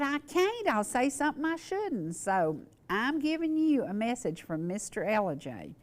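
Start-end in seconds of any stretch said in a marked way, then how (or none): 0.0-2.2 retold protest, pitched much higher; flustered friend. Friend refusing to come on the show himself, flustered. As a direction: play him refusing, all worked up. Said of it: "he was flustered".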